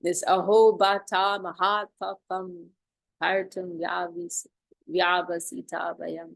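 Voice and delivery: aho bata mahatpapam said with a dramatic rise; showing the class how aho bata mahatpapam is said; dramatic Sanskrit. Shown as a demonstration. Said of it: "it's very dramatic".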